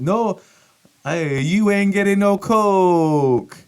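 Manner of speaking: high, loud, slow put-on voice; hammed-up no-soup-style denial; mock gruff refusal. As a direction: bark the refusal like a comic villain. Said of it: "Seinfeld-style denial quote".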